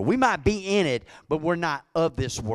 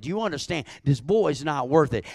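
firm motherly plea, rising and louder; mother pleading with daughter; 3 semitones higher, 4 dB louder than usual. Retold or imitated. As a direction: press it on her again and again. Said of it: "I reminded her".

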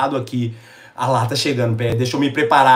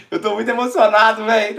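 emotional laugh; 5 semitones higher than usual. Real, not acted.

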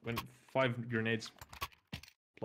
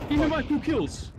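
high, slow indignant yell; loud demand; 11 semitones higher, 4 dB louder than usual. Real, not acted. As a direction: shout it out, claiming the kills. Demanding credit mid-round.

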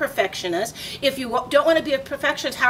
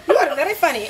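deadpan Huffington; 4 semitones higher, faster than usual. Retold or imitated. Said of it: "she wasn't laughing".

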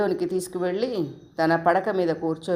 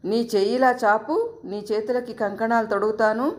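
put-on higher, gentle call to a little girl; aunt calling little Umi to hold out her hands, higher and playful; coaxing a child; 5 semitones higher than usual. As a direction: tempt the toddler with a treat.

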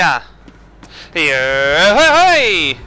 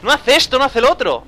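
frustrated player; 8 semitones higher than usual. Retold or imitated. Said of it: "porque va a decir".

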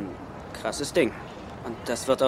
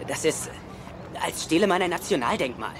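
panicked protest; 7 semitones higher than usual. Acted. Riley panics about stealing Declaration.

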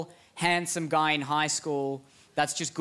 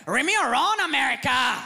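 higher, louder odd mocking taunt; high, louder jeering taunt; weird kid taunt; 7 semitones higher, 3 dB louder than usual. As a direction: jeer back like the strange loner. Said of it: "North Korea's always like".

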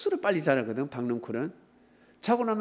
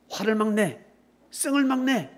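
ordinary talk

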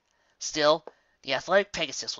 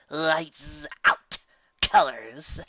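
loud gloating shout; 3 semitones higher, 7 dB louder, much slower than usual. A narrator's reading. Villain gloating after punch.

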